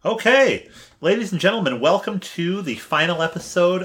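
upbeat host opener; host announcement. Real, not acted. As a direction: announce it to the audience. Opening the show as host.

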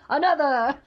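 loud, boisterous demand; hammed-up heroic shout; Thor impression. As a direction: bellow it like a feasting warrior god. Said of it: "that's my Thor voice".

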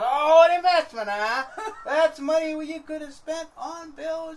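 mock the word investment like a scolding wife; sarcastic wife. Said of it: "She goes".

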